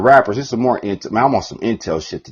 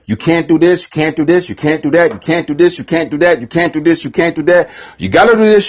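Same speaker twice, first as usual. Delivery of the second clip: higher, rattling off rules; mock label rep; 6 semitones higher, 3 dB louder than usual. Label rep dictating the contract, mock pushy rattle. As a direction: list the rules like a pushy exec. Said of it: "Be like".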